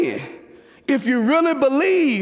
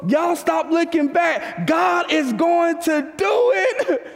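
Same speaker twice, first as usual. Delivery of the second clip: urgent shout; 3 semitones higher, slower than usual. Retold or imitated. Moses urging the fleeing people, slow rising shout. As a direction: plead it out slowly like Moses.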